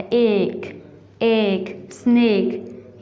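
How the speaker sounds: एक, एक, स्नेक with long "ay" vowels; long A sound. Shown as a demonstration. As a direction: draw एक out as "ayk", then स्नेक as "snayk". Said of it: "लंबी आवाज़ आती है".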